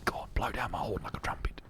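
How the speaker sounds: low, soft urging whisper; whispering rhino. Acted. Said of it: "Why are you whispering?".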